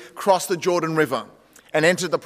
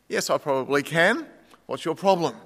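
calm voice; 2 semitones lower, 3 dB quieter than usual. Acted. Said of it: "Calm voice replies".

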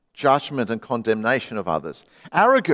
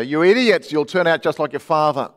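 retold scream; 2 semitones higher, 4 dB louder than usual. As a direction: imitate a mother yelling at her kid. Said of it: "screaming at her".

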